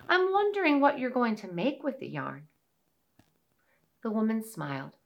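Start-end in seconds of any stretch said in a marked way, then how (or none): 0.1-2.5 high little mouse voice; tiny squeaky critter. Acted. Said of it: "said the little mouse".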